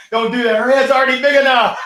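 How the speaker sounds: high, loud teasing that dissolves into laughter; laughing tease. Real, not acted. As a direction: tease and crack up. Teasing mom, breaks laughing.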